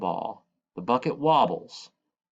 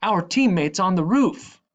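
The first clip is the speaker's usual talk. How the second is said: loud, high protesting yell; complaining; 10 semitones higher, 8 dB louder than usual. A narrator's reading. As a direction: shout out the unfairness. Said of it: "Hassan and Magubani complain".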